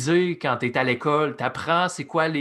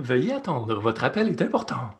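mock hold message announcer; recorded phone line voice; customer service voice; 3 semitones lower than usual. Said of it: "au téléphone quand le gouvernement vous met en attente". (voix de service à la clientèle)

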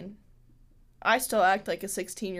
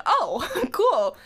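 laughing; 9 semitones higher, 5 dB louder than usual. Retold or imitated. Quoting own reaction with laugh.

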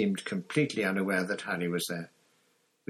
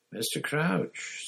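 cautious; 8 semitones higher, slower than usual. A narrator's reading. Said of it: "said Harry cautiously".

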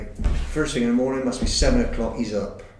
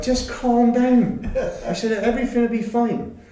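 laughing reassurance; 11 semitones higher than usual. Retold or imitated. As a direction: try to soothe him but crack up. Soothing teammate while laughing.

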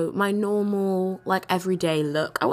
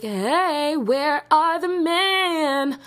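indignant ask; 8 semitones higher, 3 dB louder, much slower than usual. Retold or imitated. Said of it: "I get out the car and I'm like".

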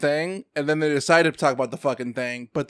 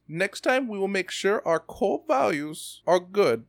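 put-on German accent; 2 semitones higher, 6 dB quieter than usual. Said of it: "That's a German accent. It's supposed to be French".

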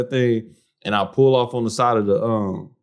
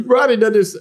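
higher, laughing brag; 10 semitones higher than usual. Real, not acted. Laughing while bragging.

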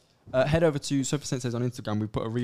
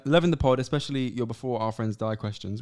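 email read-out; 3 dB louder than usual. Real, not acted. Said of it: "reading listener email aloud".

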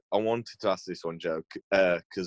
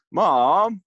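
calling out; 10 semitones higher, 7 dB louder than usual. Pretend. Calling out for mom.

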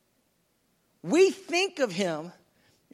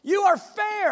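bursting, much higher and louder exclamations; overjoyed Jesus; 5 semitones higher, 7 dB louder, slower than usual. Acted. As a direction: gush over her beauty. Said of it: "he's just blowing up with this".

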